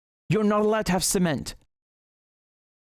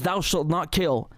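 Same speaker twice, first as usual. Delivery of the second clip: solemn quote; slower than usual. Retold or imitated. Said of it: "One of them says".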